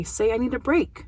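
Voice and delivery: put-on rising therapist prompt to the child; a light, coaxing prompt, barely different from her own voice. Shown as a demonstration. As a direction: model the words lightly for the child to copy. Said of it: "or by having him say".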